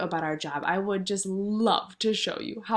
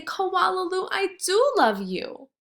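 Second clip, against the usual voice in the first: joyful mother; 10 semitones higher than usual. Acted. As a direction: throw your arms round her and say it. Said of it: "fling her arms around her neck and say".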